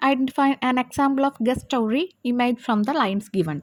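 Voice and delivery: drawn-out reading of the exam question; slow reading aloud. Shown as a demonstration. Teacher reads the question paper to students, slowly. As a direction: read it out slowly so they can follow.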